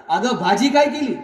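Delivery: half-hearted yell into his wife's ear; shouted into the ear. Retold or imitated. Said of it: "जोरात कानात ओरडला".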